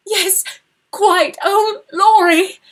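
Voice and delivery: high, loud, tearful cry of her brother's name; overwhelmed girl. Acted. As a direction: voice breaking as she clings to him. Laura overwhelmed, clinging to brother.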